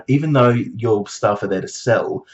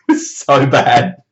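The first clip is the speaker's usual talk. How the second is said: slow, louder, stretched out; drawn-out dismay; 2 semitones higher, 6 dB louder, slower than usual. Real, not acted. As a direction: drag it out in disbelief. Recalling disastrous salad.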